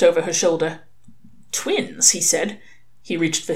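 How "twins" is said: TWINS said high and airy; a hushed, high TWINS; stunned echo. A narrator's reading. Father seeing two babies, stunned TWINS.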